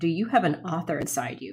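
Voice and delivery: ordinary talk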